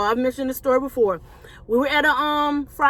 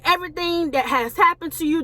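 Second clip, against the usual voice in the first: raised, sustained prophetess delivery; retold prophecy, pitched up; prophesying; 4 semitones higher than usual. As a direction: voice a prophetess declaring a word, higher in pitch. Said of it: "she's prophesying to me".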